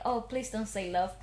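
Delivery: low, soft plea under the breath; quiet dread. Retold or imitated. Retelling dread at the coming line, quiet plea. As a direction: plead privately, voice dropped.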